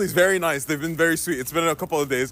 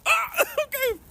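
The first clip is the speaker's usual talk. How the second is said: 1 startled reaction; 11 semitones higher, much slower than usual. Retold or imitated. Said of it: "I was like".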